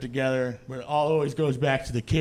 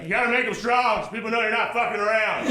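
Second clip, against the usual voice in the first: quick, pitched-up brash advice; lightly voiced kid; 5 semitones higher, faster than usual. Nephew advises his kindergarten teacher, brash kid voice. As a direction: imitate a small boy talking tough, fast.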